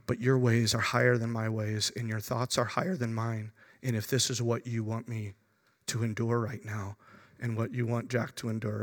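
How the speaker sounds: low, soft prayer of surrender; total capitulation. Retold or imitated. Father giving his struggle over to God, quiet surrender. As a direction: let go, sinking to a hushed acceptance. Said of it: "total capitulation".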